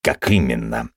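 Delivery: usual speaking voice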